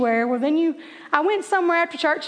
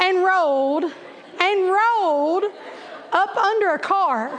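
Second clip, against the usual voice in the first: laughing. Real, not acted. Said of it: "I'm laughing and crying".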